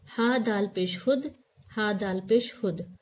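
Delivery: हुद said short, with a rounded u; spelling out hud. Shown as a demonstration. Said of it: "यहाँ पर है".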